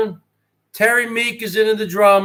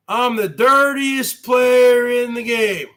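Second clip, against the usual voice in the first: catchphrase shout. Acted. Streamer shouting his wrestling boast to viewers.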